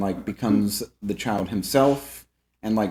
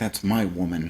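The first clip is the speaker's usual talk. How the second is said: mock furious, lower and quieter; 3 semitones lower, 4 dB quieter than usual. Retelling a film scene where Charles is livid: imitating someone livid. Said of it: "He's livid".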